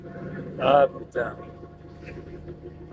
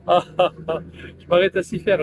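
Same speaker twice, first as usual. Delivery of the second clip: slow mock phrasing; much slower than usual. Shown as a demonstration. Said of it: "Vous voyez s'y faire ou pas?".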